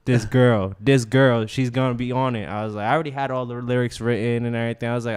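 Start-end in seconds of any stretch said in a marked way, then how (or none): 0.0-2.5 excited call to Pastor. Retold or imitated. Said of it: "I'm like".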